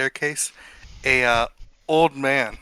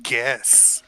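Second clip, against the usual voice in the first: excited; 6 semitones higher, 4 dB louder, slower than usual. Acted. GM voices eager NPC.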